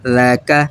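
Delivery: लका with a soft, light l; लका, l not heavy; soft lam. Shown as a demonstration. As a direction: say लका with the lam kept thin. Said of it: "लाल देखिए यहाँ नरम होगा".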